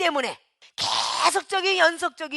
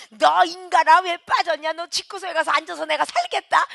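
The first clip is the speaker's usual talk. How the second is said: a louder, higher scolding pastor on the phone; mock pastor scolding; 4 semitones higher, 4 dB louder than usual. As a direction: bark at the absent member like an angry pastor. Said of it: "이래가면서".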